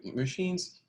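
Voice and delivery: scoffing, rising question; mock disbelief at a silly idea; incredulous high echo. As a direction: pitch it way up in disbelief. Mocking friend's machine theory.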